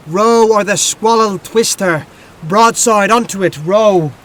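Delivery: hammed-up storm shout at the rowers; urgent rowing shout. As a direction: bark it out like a helmsman in a storm. Urgent rowing command in poem.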